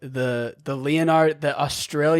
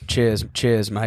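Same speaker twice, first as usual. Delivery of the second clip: mock Aussie accent; 4 semitones lower, slower than usual. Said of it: "Oh, there we go".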